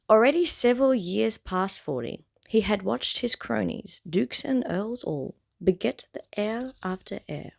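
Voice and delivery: fuller, steady storybook delivery; story narration. Acted. Reader restarting a fumbled prologue sentence, narrating with intent. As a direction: read it out clearly with measured phrasing. Rereads and continues the novel.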